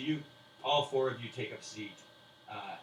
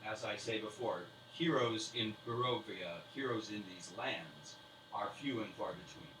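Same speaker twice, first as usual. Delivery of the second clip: slow grand speech; 6 dB louder, slower than usual. Acted. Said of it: "And he says".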